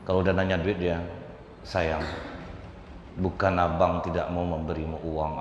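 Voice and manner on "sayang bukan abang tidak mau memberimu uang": sweet-talking husband. Acted. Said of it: "jadi luluh hati perempuan".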